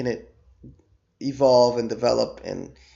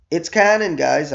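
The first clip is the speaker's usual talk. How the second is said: emphatic; 4 semitones higher, 5 dB louder than usual. Real, not acted. Insisting to doubting fans.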